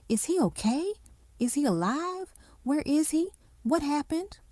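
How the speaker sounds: high, breathless panicked questions; frantic fear. A narrator's reading. Wife begging the nurse for news, frantic. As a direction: fire questions in rising panic.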